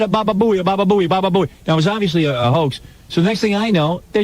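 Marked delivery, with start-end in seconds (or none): 0.0-1.5 mock Jamaican accent. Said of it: "Worst Jamaican accent I ever heard".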